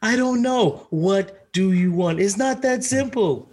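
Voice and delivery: high, whiny imitation; mock whiny high voice. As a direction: whine like you can't decide. Imitating confused woman.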